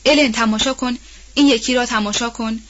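shout. Acted. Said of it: "فریاد زد".

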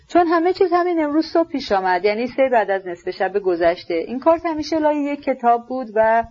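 a dazed man recounting a killing; hollow Rogozhin. Acted. Rogozhin telling the prince about the knife, numb recounting.

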